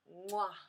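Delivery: smacked "mwah" of admiration; chef's kiss. Acted.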